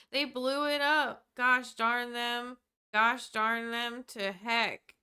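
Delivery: slow Southern drawl; Southern accent. Acted. Streamer reading out a line about the attack, in a Southern accent. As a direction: read it out slowly in a Southern accent. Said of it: "read that with a Southern accent".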